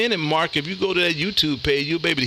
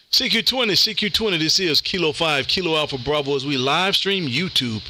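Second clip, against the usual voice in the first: radio CQ call. Acted. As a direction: announce the call sign like a radio operator.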